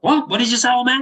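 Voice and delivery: high-pitched imitation of a belligerent drunk; mock aggressive challenge. Drunk laborer rounds on little old man, mock aggressive. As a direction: challenge him as a riled-up drunk would.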